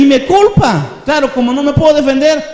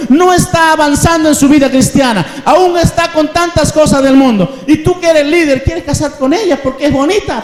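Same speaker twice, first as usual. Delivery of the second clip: stern pastor; 2 semitones higher than usual. Acted. Pastor scolding the young man.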